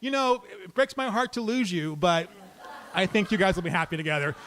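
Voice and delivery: hammed-up cupid pairing off the two brawlers; a playful hint of a matchmaker; mock matchmaker. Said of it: "I feel like I'm a matchmaker".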